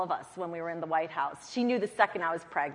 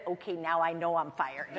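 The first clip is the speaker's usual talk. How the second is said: laughing resignation; 5 dB quieter than usual. Retold or imitated. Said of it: "and I said".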